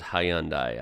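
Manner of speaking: three syllables in "Hyundai", ending in dye; non-US pronunciation. Shown as a demonstration. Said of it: "everyone outside the U S says".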